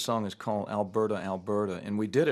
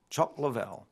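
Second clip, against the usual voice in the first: put-on English accent. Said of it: "in his English accent".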